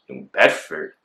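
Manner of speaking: baffled, questioning echo; confused. Retold or imitated. Suspect echoing officers about the warrant, confused. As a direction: repeat it as a puzzled question. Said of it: "mad confused and mad, like, disoriented".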